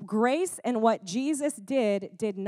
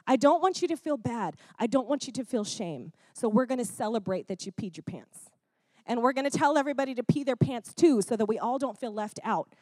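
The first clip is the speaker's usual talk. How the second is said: voice of the world. Retold or imitated. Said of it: "this is how the world approaches things".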